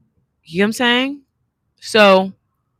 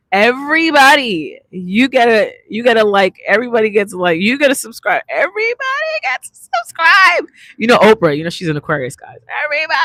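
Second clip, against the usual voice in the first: hyped plea; 4 semitones higher than usual. Real, not acted. Urging viewers to subscribe.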